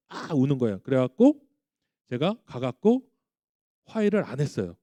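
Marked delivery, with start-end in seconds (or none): 0.1-0.3 imitated overdone wail; exaggerated crying cry. Dad mimics son's overdone crying, mock wail. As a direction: mimic a child crying too much. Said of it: "오버하면서 우는 거예요".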